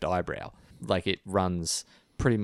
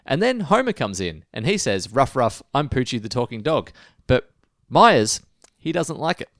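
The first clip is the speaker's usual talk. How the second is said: raised, by-the-book episode summary; banter-free recap demo; 4 semitones higher, 4 dB louder than usual. Shown as a demonstration. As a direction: recite the plot as a no-banter parody. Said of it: "This is what Four Finger Discount would sound like".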